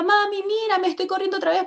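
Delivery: put-on high-pitched child calling to mom; retold child's joyful cry; excited little child. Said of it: "me decía".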